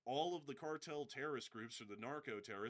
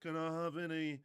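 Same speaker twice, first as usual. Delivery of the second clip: pirate character voice; 4 semitones higher, 6 dB louder than usual. Retold or imitated. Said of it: "He goes".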